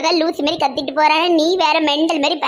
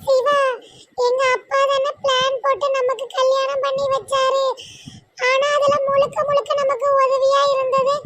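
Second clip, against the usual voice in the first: put-on young wife voice; 7 semitones higher than usual. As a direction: speak up high and gentle as the young wife.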